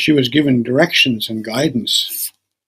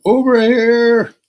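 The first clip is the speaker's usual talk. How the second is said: high, slow call from under the clothes; old man calling; 9 semitones higher, 4 dB louder, slower than usual. Acted. Old man buried in clothes calling to her. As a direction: drag it out from beneath a pile.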